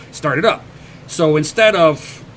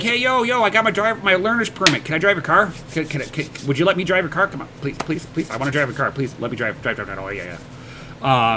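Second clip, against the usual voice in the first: mock begging; faster than usual. Friend begging to drive car.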